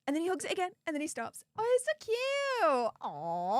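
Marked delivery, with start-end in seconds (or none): 1.6-3.6 high-pitched cute-overload coo; high, adoring squeal. Real, not acted. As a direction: gush in a high voice over something adorable. Cooing over a cute dog.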